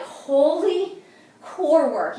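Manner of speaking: excited exclaim. Real, not acted. Coach to viewers after the pike, amazed and loud. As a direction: marvel at how hard it hits.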